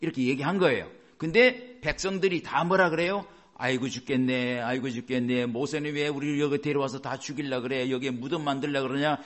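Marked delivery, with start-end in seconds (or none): 3.5-9.2 level, droning imitation of wailing; mock lament. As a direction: grumble like a complaining crowd, mildly hammed-up. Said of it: "이러면서 막 한탄을 했어요". (단조롭게 한탄하는 흉내)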